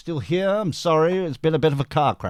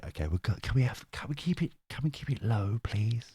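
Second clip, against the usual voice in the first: hushed request; 3 semitones lower, 8 dB quieter than usual. Real, not acted. Asks chat to hush for headache.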